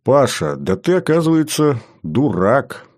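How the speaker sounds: mock-tender, lilting up then dropping; affectionately condescending; gentle, affectionate. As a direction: break it to him sweetly, like a fond insult. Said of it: "ласково произнёс Лерман".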